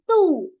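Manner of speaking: "two" with a drawn-out long oo; "two" said slowly with a long vowel; long oo sound. Shown as a demonstration. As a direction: stretch the oo in "two". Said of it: "itu agak panjang".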